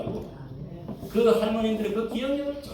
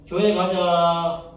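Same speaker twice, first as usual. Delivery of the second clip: slow, louder call to come along; 6 dB louder, much slower than usual. Retold or imitated. Grandma calls her friends to church, louder. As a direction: urge them out to church.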